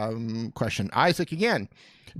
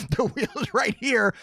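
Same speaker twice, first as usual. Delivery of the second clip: higher, slow, showman unveiling; mock grand reveal; 8 semitones higher, slower than usual. Host shows viewers the prize wheel, hammed-up announcer. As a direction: drag it out like a game show host.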